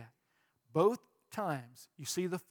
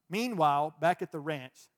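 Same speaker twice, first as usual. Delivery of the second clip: joking misread; 4 dB louder than usual. Shown as a demonstration.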